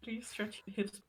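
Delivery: audio breaking up, words clipped; choppy cut off endings. Real, not acted. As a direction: voice dropping out over a bad line. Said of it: "You're, you're cutting out quite badly".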